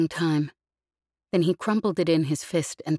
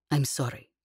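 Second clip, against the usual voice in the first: "I'm sorry" said a touch softer and gentler; a little gentler; 2 semitones lower, 3 dB quieter than usual. Acted. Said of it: "Her voice a little more gentle".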